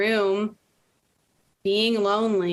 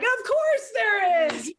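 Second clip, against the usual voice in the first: slow, much higher, dripping sarcasm; sarcastic; 12 semitones higher, slower than usual. Retold or imitated. Widow alone at a couples' cooking class, drawn-out sarcasm. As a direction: drawl it out like an eye-roll. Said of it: "And I'm like".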